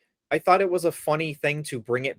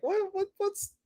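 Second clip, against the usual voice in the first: baffled; 6 dB quieter than usual. Retold or imitated. Baffled reaction quote.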